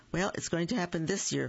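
fast, firm and stubborn. Acted. Young groundhog defying her uncle, stubborn and quick. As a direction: insist quickly, not backing down. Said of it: "Phyllis said stubbornly".

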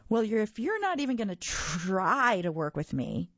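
whining. Acted. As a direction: whine it like a sulky kid. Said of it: "Mac whined".

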